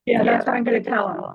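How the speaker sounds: garbled call audio; choppy, breaking-up voice; corrupted glitchy audio. Real, not acted. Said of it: "you sound all garbled too".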